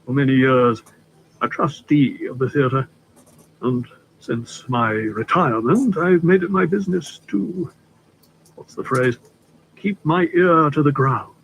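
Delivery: a hint of a courtly older gentleman, unhurried; polite stranger easing into business, lightly played; lightly voiced suave Litchfield. Litchfield reminisces.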